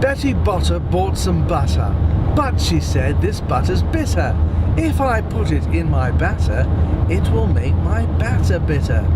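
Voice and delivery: put-on a light British accent on the tongue twister. Driver keeping himself awake with a tongue twister, light British accent. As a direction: rattle it off in a mild British accent. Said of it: "that's a basic British accent".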